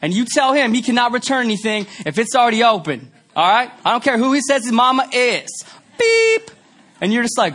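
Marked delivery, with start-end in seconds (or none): 0.0-5.6 a hint of a brassy Chicago cashier, higher; Chicago cashier on intercom. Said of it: "In Chicago, this is what you hear". 6.0-6.5 high short beep; imitated scanner beep. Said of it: "this is what you hear".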